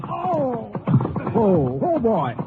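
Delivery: sharp high cries of pain; pained cries after being shot; hit by a bullet. Acted. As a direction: gasp out as the bullet strikes. Ranger is shot.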